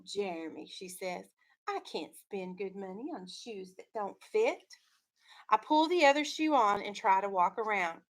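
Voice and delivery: steady read-aloud storytelling voice; story narration. A narrator's reading. Teacher reading a picture book to her class, storytelling voice.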